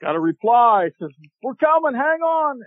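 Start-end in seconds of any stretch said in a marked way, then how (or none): 1.4-2.6 high, raised call from a distance; calling back from afar. Retold or imitated. Rescuers call back to the fallen hunter from afar, raised voice. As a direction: shout reassurance from across the swamp. Reply called back across swamp.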